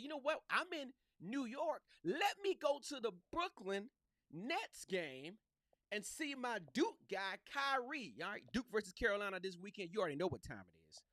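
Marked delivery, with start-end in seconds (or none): 0.0-8.1 higher, eager retelling of his own excitement; light voice of a fan about to see his hero; excited self quote. Retold or imitated. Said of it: "And I said".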